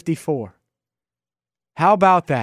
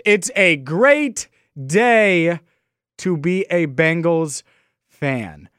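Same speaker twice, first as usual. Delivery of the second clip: radio host catchphrase; slower than usual. Retold or imitated. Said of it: "I'm stealing these words from the legend".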